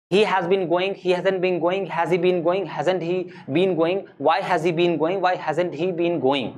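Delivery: rhythmic, even-toned verb drill; grammar drill recitation. Shown as a demonstration. Teacher drilling forms of go for students, rhythmic recitation. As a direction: rattle off the forms in a steady chant.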